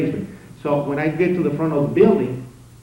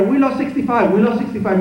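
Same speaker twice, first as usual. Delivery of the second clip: urgent radio call; 9 semitones higher, 6 dB louder than usual. Retold or imitated.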